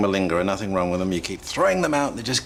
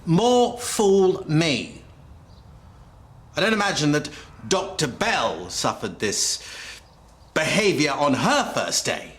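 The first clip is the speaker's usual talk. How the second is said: hammed-up indignant tirade, building higher; feigned outrage; 3 semitones higher than usual. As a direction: play the wronged superior with dramatic pauses. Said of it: "Positively Oscar material".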